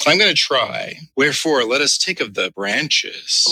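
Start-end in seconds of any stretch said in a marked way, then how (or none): 1.2-3.5 slow, suggestive scripture reading; mock-lascivious reading. Co-host making scripture sound dirty, mock-lascivious. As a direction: linger on the verse as if dirty. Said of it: "read it like it was really dirty".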